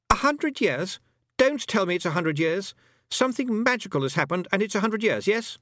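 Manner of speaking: put-on high, alarmed boy's voice; boy character, alarmed. A narrator's reading. Roland fearing a hundred years passed, alarmed high boy. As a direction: panic a little in a high boyish pitch.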